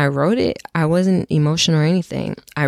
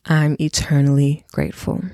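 reading a love letter. Acted. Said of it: "I'm gonna read my love letter to me".

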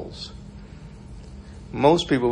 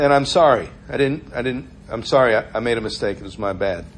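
gentle apology; 2 semitones lower than usual. Retold or imitated. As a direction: give in gently, voice sinking. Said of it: "a gentle word turns away wrath".

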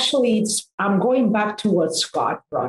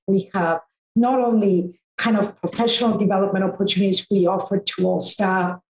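hoarse, fading voice from strain; losing voice. Real, not acted. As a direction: talk through a voice that's going. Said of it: "sorry, I'm losing my voice".

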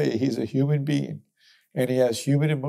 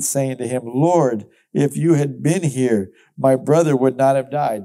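loud, steady public reading of the passage; scripture reading; 3 dB louder than usual. Acted. Preacher reading John aloud to the congregation, loud and steady. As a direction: read it out to the congregation.

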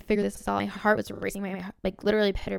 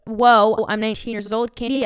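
loud burst of delight; mock-starstruck outburst; excited; 6 dB louder than usual. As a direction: blurt it out thrilled. Excited reply to podcast guest.

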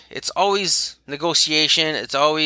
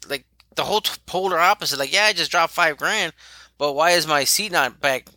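mock snooty customer; 2 semitones higher than usual. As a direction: play a snooty client who just spent big, lightly hammed up. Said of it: "they have snooty people".

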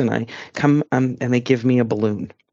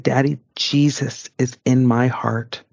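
put-on earnest child; slower than usual. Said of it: "I said".

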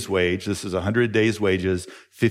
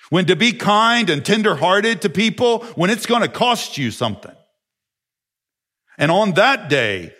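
louder, higher, urgent preaching; fervent preaching; 9 semitones higher, 5 dB louder than usual. Real, not acted. Pastor warns congregation that forgiveness will cost, fervent. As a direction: drive the warning home to the pews.

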